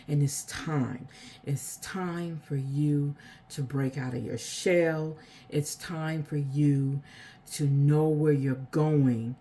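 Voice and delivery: slow, sincere delivery; a calm slow reading; slow earnest message. Real, not acted. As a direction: speak it slowly like a message for someone. Channeling intuitive message.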